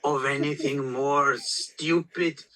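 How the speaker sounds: grave, measured impression of a withering auteur; Werner Herzog. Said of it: "I'm not having a go at Herzog".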